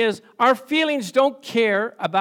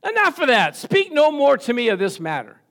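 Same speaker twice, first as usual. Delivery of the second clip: stern refusal; 3 dB louder than usual. Retold or imitated. Lord's stern refusal voiced.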